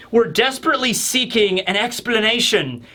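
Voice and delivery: lightly vampire-like pleading voice; a hint of a pleading vampire; Ivankov. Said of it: "trying to do Ivankov's V thing, but I ended up sounding like a vampire".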